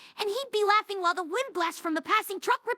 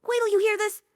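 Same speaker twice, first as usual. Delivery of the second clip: excited; 2 semitones higher, 4 dB louder than usual. Acted. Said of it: "excited and out of breath".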